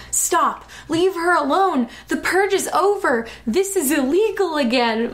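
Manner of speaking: hammed-up father laying down the law; booming father. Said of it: "my father boomed".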